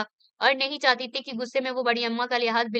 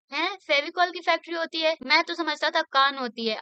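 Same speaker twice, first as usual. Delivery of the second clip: higher, incredulous teasing question; mock surprise; 5 semitones higher than usual. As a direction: pretend to be amazed by her slip. The speaker echoes her mixup, laughing. (हैरानी का नाटक करते हुए ऊँची आवाज़ में)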